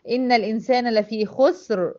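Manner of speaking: slow recited verse ending on a stop; Quranic recitation. Shown as a demonstration. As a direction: recite it, stopping on خسر. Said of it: "وقفت هنا على الكلمة فسكنت الريه".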